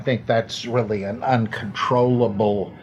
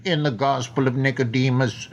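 put-on Welsh accent. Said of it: "my terrible Richard Burton imitation".

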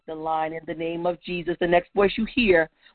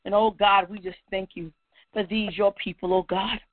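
reverent thanksgiving prayer. Real, not acted. Preacher thanking God before his throne, settled and reverent. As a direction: ease down into grateful awe.

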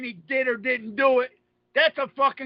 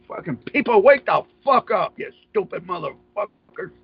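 ranting; 6 semitones lower, 4 dB louder than usual. Real, not acted. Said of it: "I'm ranting".

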